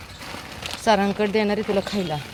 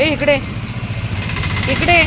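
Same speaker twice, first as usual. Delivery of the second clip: calling a pet; 8 semitones higher than usual. Real, not acted. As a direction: call it up high across the street. Calling the dog over.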